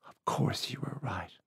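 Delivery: quick, hushed whisper; said quickly. A narrator's reading. Woman quickly reassuring him, in a whisper. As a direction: rush it out under her breath. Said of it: "she said quickly".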